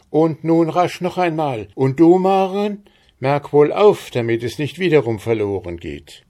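high, loud, eager instructions; excited urging. A narrator's reading. Stine excitedly urging a repeat.

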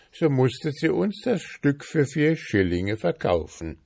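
high, animated account; freed prince. A narrator's reading. Prince explains the witch's spell, animated high voice. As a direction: tell it urgently as the prince.

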